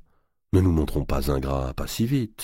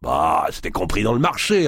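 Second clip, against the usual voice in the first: laughing; 2 semitones higher, 3 dB louder than usual. Acted. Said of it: "répondit d'Artois en riant".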